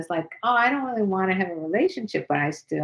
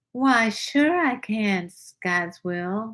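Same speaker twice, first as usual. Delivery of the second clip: seductive, sultry, sexy put-on Southern accent; 3 semitones higher than usual. Responding when asked to do a sexy Southern accent. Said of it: "could you do a sexy Southern accent?".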